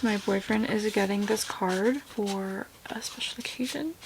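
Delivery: hushed secret whisper; conspiratorial whisper about a gift; whispered aside. Real, not acted. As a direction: whisper it so he won't hear.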